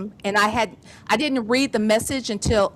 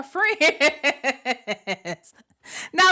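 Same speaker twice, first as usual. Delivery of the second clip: ordinary talk, nothing marked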